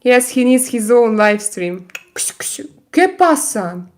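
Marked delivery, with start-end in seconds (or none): 2.2-3.8 high, drawn-out pet talk; calling the cat. Real, not acted. Streamer asking her cat what's up, high cooing. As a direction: stretch it out slowly, pitched up.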